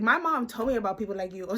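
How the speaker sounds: fast, laughing through the line; laughing while quoting. Retold or imitated. Teasing the guy with her mom's warning, laughing. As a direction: crack up at your own comeback.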